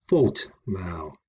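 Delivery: FAULT mal, second word a little lighter; stress on fault. Shown as a demonstration. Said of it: "a little bit louder than I do mal".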